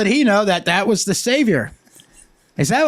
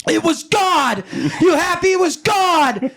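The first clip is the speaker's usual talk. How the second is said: high-pitched hammed-up shout; exasperated shouted confession; defiant yell; 10 semitones higher than usual. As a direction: throw it back at an angry husband. Acted quarrel, scared wife yelling back.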